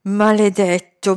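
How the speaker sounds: "Maledetto" voiced and slow, with rising anger; a mild seething curse; angry curse. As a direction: let "Maledetto" come out aloud, seething. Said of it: "sibilò Hussain".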